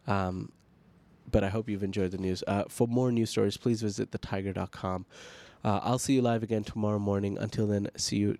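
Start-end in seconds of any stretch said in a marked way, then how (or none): 1.3-8.4 stuffy, nasal speaking voice. Real, not acted. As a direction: talk with a blocked nose. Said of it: "nasally voice today".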